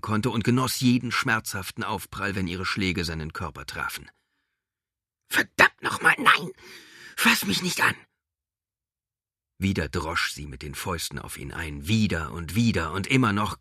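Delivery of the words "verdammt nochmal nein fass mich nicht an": high, loud enraged yell; furious shout. Acted. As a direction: scream at the attacker. Woman fights off creature.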